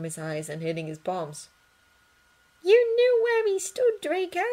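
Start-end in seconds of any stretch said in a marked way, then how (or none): 2.6-4.4 soft. Acted. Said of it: "Hermione said softly".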